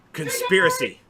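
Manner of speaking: hammed-up conspiracy alarm; mock shock. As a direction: gasp as if uncovering a plot. Mock shock at airplane link.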